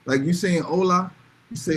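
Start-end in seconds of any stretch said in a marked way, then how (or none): 0.6-1.1 "hola" said as in plain English; "hola" without Spanish accent; English-style hola. Shown as a demonstration. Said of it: "the same way you speak in English".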